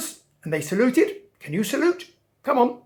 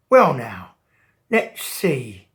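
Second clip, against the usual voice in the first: sly shark; 7 semitones lower, 5 dB louder, slower than usual. Acted. Shark voiced in story.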